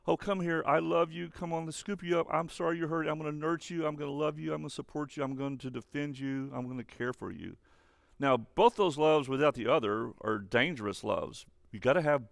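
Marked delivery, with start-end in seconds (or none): 0.1-7.6 higher-pitched soothing parent, easing down and softer; tender parental love. Acted. Parent scooping up a hurt child, tender and soothing. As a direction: comfort a hurt child, gradually settling softer. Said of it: "The soft side of love is".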